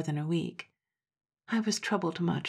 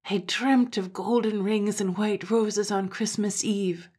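excited cry; 4 semitones higher, 4 dB louder than usual. Acted. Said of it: "cried Granny".

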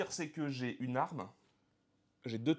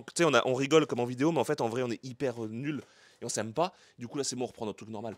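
deadpan; 4 semitones lower, 3 dB louder, faster than usual. Pretend. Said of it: "La bonne humeur fausse".

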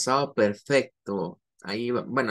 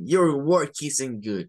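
slow, flat verdict, a touch louder; blunt teacher; 3 dB louder, slower than usual. Shown as a demonstration. Teacher to student rejecting the work, blunt. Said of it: "le digo al estudiante".

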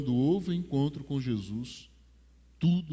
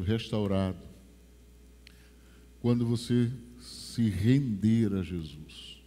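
solemn altar call; 4 semitones lower than usual. Acted. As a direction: draw them in gently toward Jesus. Soft solemn appeal.

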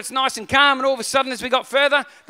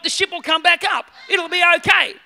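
forced reassurance; 4 semitones higher than usual. Retold or imitated. Forced comfort to scared wife.

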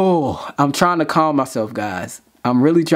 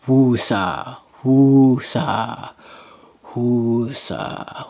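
calming woo-sa breaths; 5 semitones lower, much slower than usual. Real, not acted. Vlogger calming himself after the performance, low soothing chant. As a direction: breathe it out to settle down. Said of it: "Let me collect myself".

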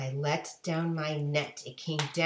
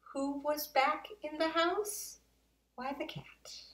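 hushed reveal; 10 semitones higher than usual. A narrator's reading. Narrator whispers the cat's return to listeners. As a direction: whisper the surprise.

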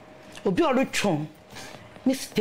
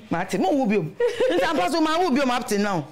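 laughing; 5 semitones higher than usual. Real, not acted. Laughing while telling birth story.

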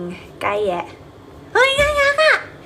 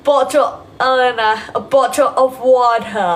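attempted British accent; 2 semitones higher, 3 dB louder, much slower than usual. Shown as a demonstration. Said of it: "แอบอยากพูดได้ สำเนียงบริติช".

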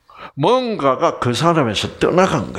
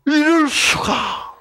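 amazed gasp; 12 semitones higher, slower than usual. Acted. Leper amazed at Jesus' touch.

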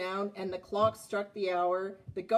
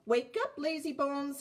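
Thomas teasing; 5 semitones higher than usual. Acted. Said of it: "he whistled".

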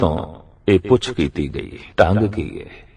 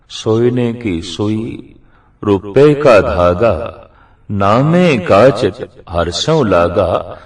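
slow, measured verse recitation; scripture recitation; slower than usual. Acted. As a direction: recite the sacred line slowly, phrase by phrase. Recites the verse again slowly. (ਗੁਰਬਾਣੀ ਦੀ ਤੁਕ ਦਾ ਹੌਲੀ, ਠਰ੍ਹੰਮੇ ਵਾਲਾ ਉਚਾਰਨ)

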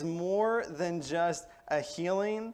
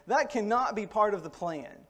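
Peter pleading with Jesus; 3 semitones higher than usual. Acted. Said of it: "Peter brings Jesus to the side to say".

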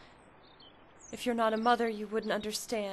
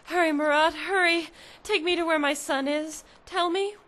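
urgent pressing; 3 semitones higher, 4 dB louder than usual. Acted. Urgent mother pushes Marat.

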